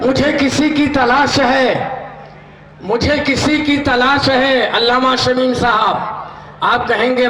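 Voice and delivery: stately, rhythmic verse with long held lines; poem recitation. Acted. Naat poetry recited at mehfil. (मंच पर भावपूर्ण नात पाठ)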